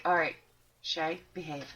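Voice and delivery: low, quiet stern warning; a hushed scolding glance. Retold or imitated. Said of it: "looking at me like".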